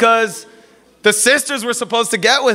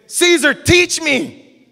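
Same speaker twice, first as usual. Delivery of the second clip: mock seeker voice; 6 semitones higher, much slower than usual. Seeker asking preacher to teach.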